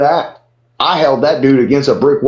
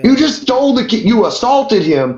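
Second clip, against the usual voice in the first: higher, indignant calling out; heated confrontation; 5 semitones higher than usual. Retold or imitated. Calling out the door guy, indignant. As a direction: confront the bragging bouncer. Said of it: "And I'm like".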